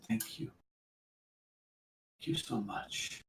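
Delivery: barely audible, breathy thanks; faint grateful whisper. Acted. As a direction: whisper it weakly, as after great pain. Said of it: "she just looks up at you and she says".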